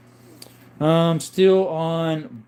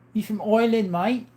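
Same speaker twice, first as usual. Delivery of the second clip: a higher, lightly put-on Irish accent; mock Irish accent; 7 semitones higher than usual. Host greets a viewer from Ireland in a mock Irish accent. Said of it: "That was not an Irish accent, mate".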